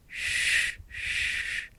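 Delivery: whispered shush; soothing shush. Acted. Narrator hushing the crying dragon, whispered. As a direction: hush her gently.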